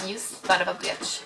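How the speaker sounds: low, slow, hushed insult; muttered curse. Retold or imitated. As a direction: curse under the breath, drawn out. Silently cursing the lady while watching.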